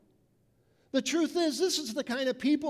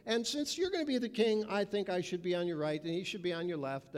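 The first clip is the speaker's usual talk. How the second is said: mock disciples' request; 4 semitones lower, 3 dB quieter than usual. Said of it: "what do the people do".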